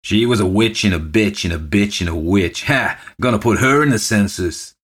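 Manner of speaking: sudden tipsy jeer; abrupt, tipsy remark. A narrator's reading. Drinker at the post office counter butts in, abrupt and mocking. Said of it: "gave a whisky chuckle and remarked abruptly".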